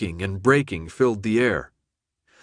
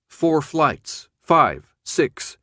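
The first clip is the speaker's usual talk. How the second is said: out of breath; 4 semitones higher, much slower than usual. A narrator's reading. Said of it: "catching his breath".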